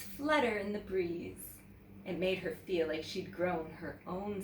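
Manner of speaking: put-on lively read-aloud to children; teacher reads a picture book to young students, animated; storybook narration. A narrator's reading. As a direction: tell it like story time for kids.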